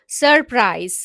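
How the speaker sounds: सरप्राइज with a clear buzzing z at the end; teacher modelling सरप्राइज with z; z sound example. Shown as a demonstration. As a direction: lean into the z of सरप्राइज. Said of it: "सी आई और ई के बीच में S आ रहा है".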